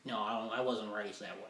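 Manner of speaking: slow, halting racist voice; imitating a racist man, lightly voiced; mock racist. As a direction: stammer it out awkwardly. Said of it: "they'll have these old weird ass faces".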